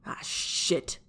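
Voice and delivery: whispered curse; cursed under his breath. Acted. Captain realizing his mistake, whispered curse. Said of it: "Jiraiya cursed under his breath".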